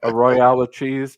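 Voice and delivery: a light French lilt on Royale; mock French accent. Asking the French friend for something French, mock French accent. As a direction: toss it off in joke French. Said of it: "Give us an omelet du fromage".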